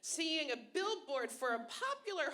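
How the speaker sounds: normal talking voice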